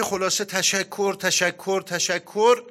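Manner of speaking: building grateful cries. Retold or imitated. Mother thanking the Imam, retold.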